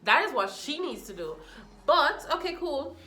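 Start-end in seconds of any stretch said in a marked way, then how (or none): 1.8-3.0 excited okay. Real, not acted. Mocking approval burst.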